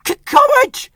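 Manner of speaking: stuttering, rising loud engine chant; chuffing courage. Acted. Rheneas steaming up the shaking hill, loud stuttering chant. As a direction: puff out brave stammered words. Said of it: "he chuffed".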